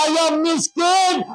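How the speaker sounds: put-on scornful child. Voicing a child insulting parents.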